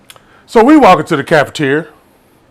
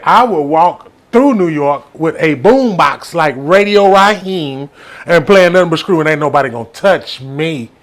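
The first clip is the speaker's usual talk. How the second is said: confident boast. Retold or imitated. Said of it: "that's how confident I was".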